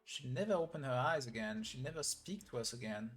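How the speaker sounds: lightly acted scene read of two characters; mildly dramatized game dialogue reading; voicing story dialogue. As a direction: read the cutscene lines with a touch of drama. Reads game story dialogue aloud.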